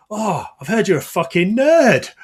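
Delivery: high, loud imitated taunt; mock jeering. Retail manager outing a colleague as a nerd, mock jeering. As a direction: imitate a manager's gleeful needling.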